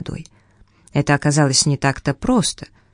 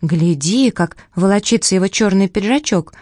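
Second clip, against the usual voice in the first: put-on high, quick little girl; rising to a bright girlish squeal; girl's voice; 4 semitones higher than usual. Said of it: "сказала Дженни".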